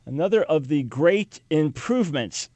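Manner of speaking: dry mock praise for the great improvements; sarcastic. Real, not acted. Host mocking new certificates, sarcastic. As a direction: say another of the great improvements with heavy irony. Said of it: "sarcasm there".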